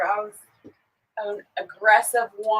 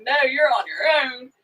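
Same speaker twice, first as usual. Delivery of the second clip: laughing refusal; 3 semitones higher than usual. Real, not acted. Laughing at husband's plight.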